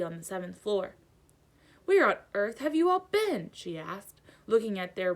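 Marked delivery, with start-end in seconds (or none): 1.8-3.5 high, loud indignant lady; the Fat Lady scolding the late students, high and loud; scolding portrait. A narrator's reading. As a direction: demand an explanation.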